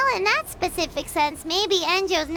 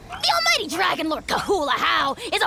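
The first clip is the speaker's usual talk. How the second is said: indignant shout. Acted. Dragon lord denies betrayal.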